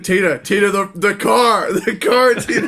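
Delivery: hint of a cartoon dad calling out a warning; lightly acted panicked cartoon dad. Co-host quotes a favourite Bob's Burgers scene, mock alarm.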